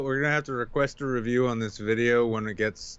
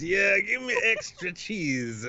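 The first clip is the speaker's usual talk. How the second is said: mock Italian; 3 semitones higher than usual. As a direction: order pizza like a cartoon Italian. Italian voice ordering pizza.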